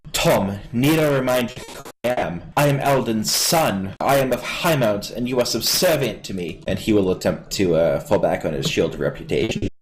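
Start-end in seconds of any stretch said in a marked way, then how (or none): 0.1-6.6 lightly voiced lordling pulling rank; formal, slightly raised boy-lord voice; haughty young noble. Boy reminds servant of his station, haughty.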